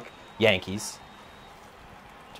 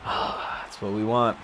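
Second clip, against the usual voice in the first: slow, whispered on a sigh; a slow wistful whisper; 4 dB quieter, much slower than usual. Real, not acted. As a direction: breathe it out slowly, almost no voice. Sighing to himself over the game.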